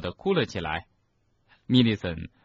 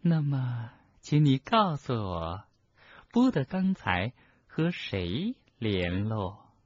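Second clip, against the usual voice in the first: coaxing interrogator; 3 semitones higher, slower than usual. Acted. Umbridge questions Hermione.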